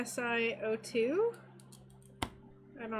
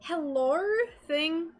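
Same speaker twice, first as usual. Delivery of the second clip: put-on Australian accent; 6 semitones higher, 5 dB louder than usual. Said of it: "doing impressions of if he was in Australia".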